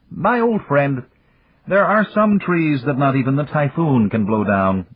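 Yamagata. A narrator's reading. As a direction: pass on ancient wisdom gently.

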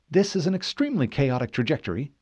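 quick, focused report; brisk, concentrated assistant's voice; busy ship's AI. Acted. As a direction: rattle it off while calculating. Cortana works to steady the ship.

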